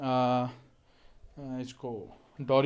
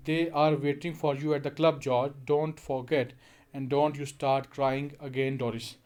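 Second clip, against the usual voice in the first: grimly; much slower than usual. Acted. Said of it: "even more grimly".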